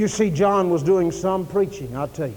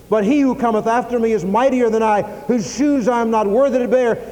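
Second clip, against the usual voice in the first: forceful scripture declamation, building slightly; prophet's pulpit proclamation; John the Baptist; 4 semitones higher, 4 dB louder than usual. Acted. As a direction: preach the warning in steady, rising waves. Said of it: "that's the kind of preacher John was".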